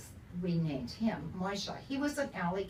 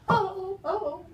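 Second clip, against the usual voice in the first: high, loud frightened gasps; startled awake, a hammed-up frightened moan; waking from a nightmare; 13 semitones higher, 6 dB louder than usual. Wife waking from a nightmare, frightened oh oh. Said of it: "I wake up going".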